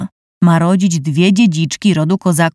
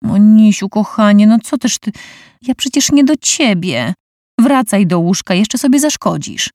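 lightly raised coaxing chatter; placating husband; 4 semitones higher than usual. Acted. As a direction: soothe her, a bit panicky. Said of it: "Terkotał".

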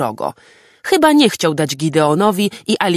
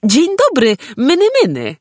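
high, louder calling to an animal; 9 semitones higher, 3 dB louder than usual. A narrator's reading. Boy calling a small animal in the forest, high coaxing call. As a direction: coax the little creature over with a high call. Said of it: "Zawołał do zwierzaka".

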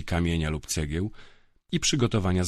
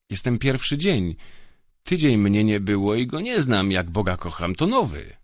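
anxious denial; 3 semitones higher, 3 dB louder than usual. Acted. Older guard protesting innocence to the inquisitor, nervous. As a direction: swear he knows nothing.

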